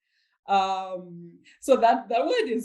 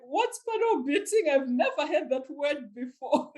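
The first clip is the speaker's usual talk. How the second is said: much higher, laughing puzzled question; baffled professor; 6 semitones higher than usual. Retold or imitated. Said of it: "my professor was like".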